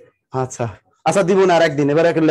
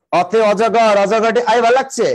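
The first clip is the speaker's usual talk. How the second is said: lightly mimicked Old Dhaka recitation; Old Dhaka singsong imitation; Old Dhaka dialect; 3 semitones higher, slower than usual. Shown as a demonstration. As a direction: recite a primer line in Old Dhaka accent. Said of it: "বলে না ওরা?".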